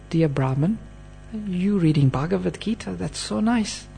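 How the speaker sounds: softly voiced, courteous address; very respectful. Mahaprabhu addresses the crying Brahmin, softly respectful. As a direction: approach him gently and with respect. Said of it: "very respectfully he said".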